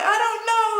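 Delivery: very high mock-crying wail; high, whiny retold helplessness; imitated bawling. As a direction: wail it like a hammed-up sob. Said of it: "like, bawling my eyes out".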